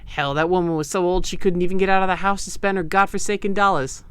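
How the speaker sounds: put-on a light, loose East Coast gangster accent; vague East Coast accent. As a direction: play it like a Boardwalk Empire hood, only lightly. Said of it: "my vaguely East Coast accent".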